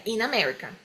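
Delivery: "in America" joined as a single word; linked words. Shown as a demonstration. Teacher repeats the joined example, linked words. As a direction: let the N of "in" start "America". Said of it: "vogal também junto".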